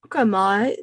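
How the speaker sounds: practising "mate" in an Aussie accent; learner's Australian "mate" with rising end; Australian accent attempt. Shown as a demonstration. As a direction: try the Australian vowel in "mate". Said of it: "The A has to be a little more longer and nasal".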